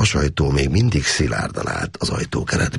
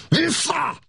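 even higher, straining yell; roaring shout again. A narrator's reading. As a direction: push the shout up to its peak. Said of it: "elüvöltötte magát".

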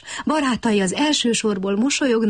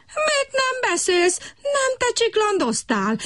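much higher, slow, squeaky frog voice protesting; indignant frog; 14 semitones higher, slower than usual. A narrator's reading. Frog Brekeki protesting to the other frog, high and indignant. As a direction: protest the accusation shrilly. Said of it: "méltatlankodott Brekeki".

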